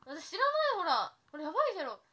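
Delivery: high, loud flustered denial; flustered protest. Real, not acted. Streamer insisting to viewers she isn't using a filter, high flustered denial. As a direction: throw up your hands at the screen, denying it loudly.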